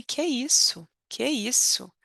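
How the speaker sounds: high amazed que isso; surprised exclamation. Shown as a demonstration. Teacher acting out film surprise, amazed. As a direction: sound astonished, as if you can't believe it. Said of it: "depende da entonação".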